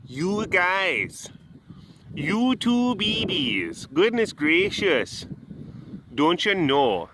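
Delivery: put-on cooing in an old Wisconsin accent; thick Midwest Wisconsin coo. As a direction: gush over the babies in Wisconsin accent. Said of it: "Bringing out my old Wisconsin accent there".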